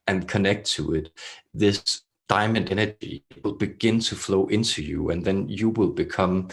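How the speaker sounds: measured, throaty channeler with long pauses; throaty channeled voice. Acted. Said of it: "they speak in such a throaty".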